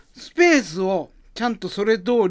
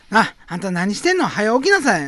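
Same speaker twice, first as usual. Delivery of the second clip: loud nosy osaka auntie; 4 semitones higher, 3 dB louder than usual. Acted. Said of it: "始まりの街というネタ".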